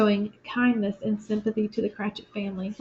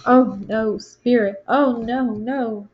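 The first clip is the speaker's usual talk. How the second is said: louder panicked cries of "no"; terrified; 6 dB louder, slower than usual. Acted. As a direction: cry out as if facing your own grave. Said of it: "Scrooge is reeling in terror".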